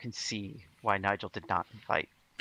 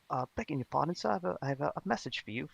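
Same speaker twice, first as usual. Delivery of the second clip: put-on street kid; 9 semitones higher, faster than usual. Street urchin messenger.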